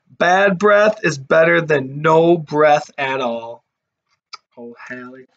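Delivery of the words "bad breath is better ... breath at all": slow quote reading. Shown as a demonstration. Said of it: "it even says".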